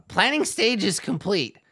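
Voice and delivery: a goblin boss reciting rules; officious goblin. Retold or imitated. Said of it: "kinda turns back around and is like".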